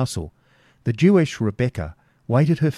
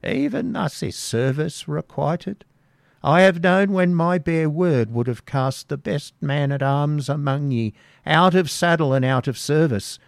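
grumbling hag; 3 semitones higher than usual. Acted. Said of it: "grumbled the hag".

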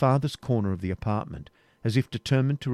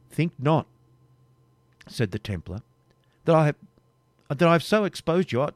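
higher, urgent, faltering denial; agitated protest; 6 semitones higher, 4 dB louder than usual. Acted. Templar protesting to Rebecca that he did not expose her, agitated. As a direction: deny it in a rush.

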